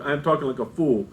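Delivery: brisk parenthesis dropped under the main line; parenthetical note. Shown as a demonstration. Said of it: "So this is a parenthetical note".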